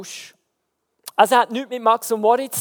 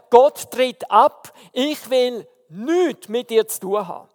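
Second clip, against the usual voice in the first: angry renouncing shout; slower than usual. Retold or imitated. Heckler shouting God away.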